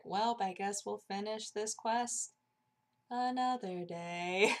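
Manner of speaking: slow mock disappointment; resigned. Kicked out of the game, slow resignation. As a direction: drag it out in reluctant defeat. Retold reluctant giving up.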